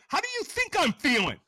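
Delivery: loud, high, strained retort; snarled comeback. Retold or imitated. The hungover addict snaps at his AA caller. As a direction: snap back, miserable. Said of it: "I'm like".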